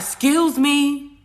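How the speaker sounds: high, slow, sweetly polite; mock polite excuse me. Telling viewers about confronting a neighbor, mock polite. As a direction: put on an overly polite voice. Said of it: "I was like".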